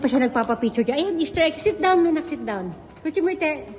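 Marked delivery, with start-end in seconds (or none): 1.6-2.3 raised calling voice; calling to sit. Real, not acted. Mother calling child to sit. 2.3-2.7 quiet repeat. Real, not acted. Mother repeats instruction quietly.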